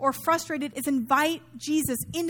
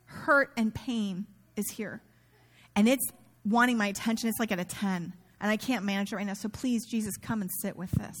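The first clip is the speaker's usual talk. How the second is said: gentle prayer; 5 semitones lower, 3 dB quieter than usual. Shown as a demonstration. Modeling honest prayer to Jesus.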